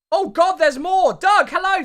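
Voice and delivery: loud, high burst of surprise; high, loud, delighted greeting; excited surprise. Real, not acted. More subscriber alerts come in.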